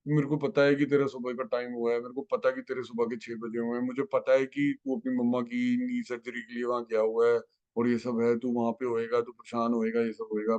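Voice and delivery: mild imitation of a loving aunty; lovingly. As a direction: speak to him tenderly, like a caring aunty. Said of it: "aunty बड़े प्यार से कहती है".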